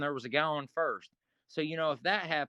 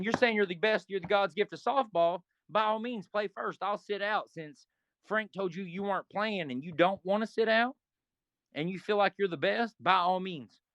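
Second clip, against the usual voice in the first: a hint of mock politeness, pitched up; offering a teammate his spot, lightly condescending; 3 semitones higher than usual. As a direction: talk down to him sweetly. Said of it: "I was being condescending".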